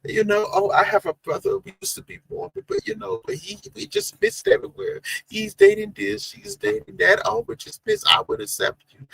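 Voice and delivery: put-on high, breathy valley-girl gush; high-pitched mock valley girl voice; Denver blonde girl impression. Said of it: "Trey, they would love to hear your voice again".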